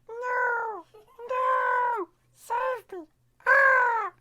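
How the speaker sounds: very high crying pleas for help; high desperate child's cry; panicked little girl. Acted. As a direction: beg to be saved in a tiny scared voice. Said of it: "And she was like".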